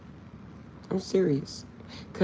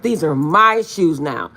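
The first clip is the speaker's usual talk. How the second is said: teasing claim; 9 dB louder, slower than usual. Retold or imitated. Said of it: "I'm like".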